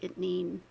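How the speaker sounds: "itnain." with a plain T instead of TH. Retold or imitated. Noting how the speaker says two: T for TH. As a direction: say "itnain." with a hard T, no TH. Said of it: "he pronounced it like a T".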